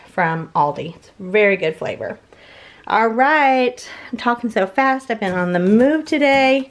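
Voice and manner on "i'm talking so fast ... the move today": breathless from rushing around; out of breath. Real, not acted. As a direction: talk while catching your breath. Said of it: "I'm, like, all out of breath".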